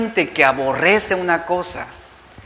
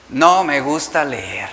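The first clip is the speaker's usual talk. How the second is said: put-on lower, slow sulky child; 5 semitones lower, slower than usual. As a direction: drag out "No me gusta leer" low and reluctant. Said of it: "Es lo que te van a decir tus hijos". (niño enfurruñado, grave y lento)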